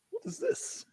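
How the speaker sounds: high, soft mocking Agnes voice; a squeaky, disdainful lady asking; mock disgusted lady. Co-host mimics Agnes scoffing at soup in a high, soft voice.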